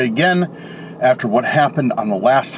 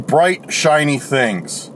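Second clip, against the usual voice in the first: slow and dreamy; 5 semitones higher, much slower than usual. Shown as a demonstration. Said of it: "their intention of".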